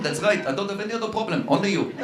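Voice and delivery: a mild, cool put-down; Israeli retort. Retold or imitated. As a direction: settle it calmly. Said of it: "tough guy".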